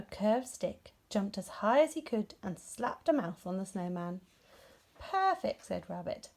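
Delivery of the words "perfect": delighted. A narrator's reading. Rabbit pleased.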